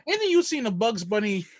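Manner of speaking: real laugh breaking through the words; giggling through the punchline. Real, not acted. Host finishing a joke to co-hosts, laughing.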